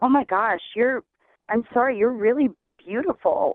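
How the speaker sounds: mock-apologetic, eased-up, softened tone. Retelling an angry man's reaction after she started crying, acting out his softened apology. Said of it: "he immediately eased up".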